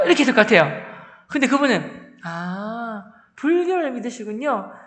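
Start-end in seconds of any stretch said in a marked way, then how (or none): 2.2-4.7 softer, kindly greeting; smiling gentle teacher. Retold or imitated. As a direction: welcome the student with a gentle smile. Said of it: "하면서 웃으시면서". (웃으며 부드럽고 상냥하게)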